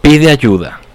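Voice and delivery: grand poetry declamation. Shown as a demonstration. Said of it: "haz de cuenta que estás como que declamando".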